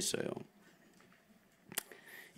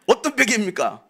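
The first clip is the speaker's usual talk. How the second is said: asked through a laugh; laughing question; 5 semitones higher than usual. Real, not acted. Preacher teasing the congregation, laughing. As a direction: laugh while you ask it.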